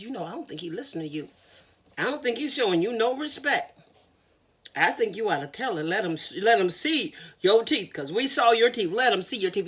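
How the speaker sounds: rabbit voice. Acted. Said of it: "The rabbit says".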